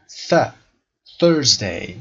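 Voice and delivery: Thursday opened on a clear unvoiced th; TH sound. Shown as a demonstration. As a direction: show the th of ث in Thursday. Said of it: "صدای ث رو داریم".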